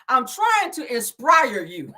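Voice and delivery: slow, drawn-out mimic of Tisha; mock Tisha. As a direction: parody her speech. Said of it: "telling people in Belgium".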